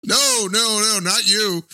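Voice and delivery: high, drawn-out character voice; hammed-up slow, high denial; mock protest. Continuing the comic put-on character bit.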